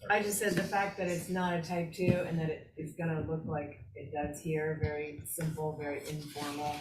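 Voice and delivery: echoey, boomy line like a tunnel. Real, not acted. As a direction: voice bouncing around a tunnel. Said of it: "You guys sound like you're in a tunnel".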